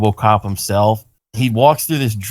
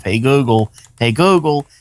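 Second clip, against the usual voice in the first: building wake-word calls; 4 semitones higher than usual. Retold or imitated. Frustrated owner calling a deaf smart speaker, building up. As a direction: repeat the wake word, climbing higher each time.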